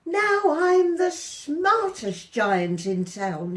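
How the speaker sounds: chest-out proud giant boasting; proudly. A narrator's reading. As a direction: puff up and brag it. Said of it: "he said proudly".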